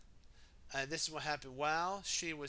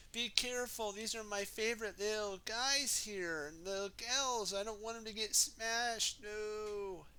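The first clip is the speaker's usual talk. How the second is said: fussy Missus Potts; 6 semitones higher than usual. Acted. Missus Potts warns about gnomes.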